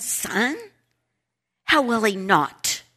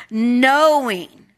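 "knowing" set apart and stretched, pitch arched; emphasis on knowing; 2 semitones higher, 4 dB louder than usual. Shown as a demonstration. Teacher has class underline a word, emphatic "knowing". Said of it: "please underline that word".

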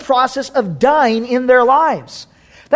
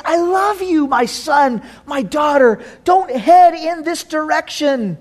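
loving father; 3 semitones higher than usual. Acted. Preacher voicing loving Father God.

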